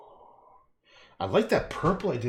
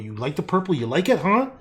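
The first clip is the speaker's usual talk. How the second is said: mock taunting; 6 semitones higher, 8 dB louder than usual. Taunting purple.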